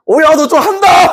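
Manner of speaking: high, hammed-up admiring exclamation; impressed praise. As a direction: cheer them on as if pleasantly surprised. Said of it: "이런 이제 칭찬을 들었다고".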